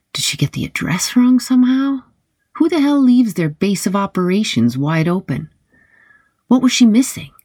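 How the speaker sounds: rising, baffled questions. A narrator's reading.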